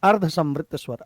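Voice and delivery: ordinary talk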